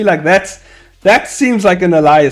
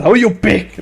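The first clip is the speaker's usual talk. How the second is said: raised-pitch imitation of someone shouting back; mock distant shout; 7 semitones higher than usual. Streamer imagining someone shouting back from afar, mock shout. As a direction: call it out like a far-off heckler, half-volume. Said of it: "Before someone shouts out".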